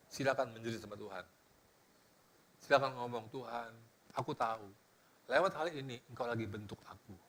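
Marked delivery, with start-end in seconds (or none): 3.3-7.2 low, soft prayer of surrender; doa lirih. Acted. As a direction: quietly confide it to God. Doa orang menderita yang diperagakan. (berdoa pasrah dengan suara lirih)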